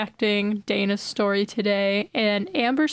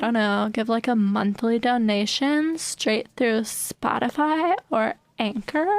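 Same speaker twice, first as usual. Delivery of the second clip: put-on Valley Girl voice. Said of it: "that's enough of the Valley Girl voice".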